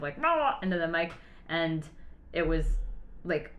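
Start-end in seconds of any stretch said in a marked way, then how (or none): 0.2-0.6 high, brief mock "rah"; imitated captain's cry. Whale-watch passenger imitating the captain at the mic, mock cry. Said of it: "the captain kind of".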